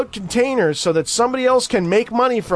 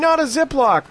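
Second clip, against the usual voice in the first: higher mock kid's protest; imitating child protest; 8 semitones higher than usual. Retelling the kid's line to mommy, higher mock child voice. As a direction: pitch it up like a little boy objecting. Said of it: "but anyway".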